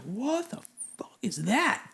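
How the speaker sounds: hushed, slow whisper of disbelief; a whispered what-was-that; stunned whisper. Retold or imitated. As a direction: breathe it out, shocked and unsure. Confused sailors hearing the blast.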